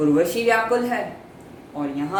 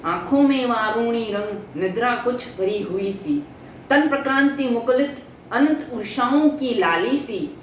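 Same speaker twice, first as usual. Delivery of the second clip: impassioned declaiming of love verse; a longing lover's verse, delivered with swelling emphasis; poetry recitation; 3 semitones higher than usual. Acted. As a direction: recite in measured phrases, rising on the pleas. Recites Pururava's love poem.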